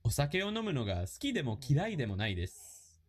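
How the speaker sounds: quick, natural-pace Japanese; full speed drill read. Shown as a demonstration. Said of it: "Full speed".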